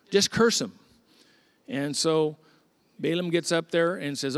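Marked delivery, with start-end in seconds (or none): 0.1-0.7 louder, higher, insistent repeat; pushier demand. Acted. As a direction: push it harder the second time. King repeats the demand harder.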